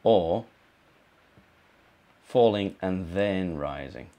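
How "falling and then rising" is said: falling and then rising, slowly, with the voice dipping then lifting; fall-rise tune. Shown as a demonstration. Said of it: "So we've got".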